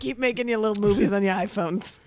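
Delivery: lightly voiced old Hollywood producer; a hint of a doddering old man. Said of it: "he sounds like a very old man".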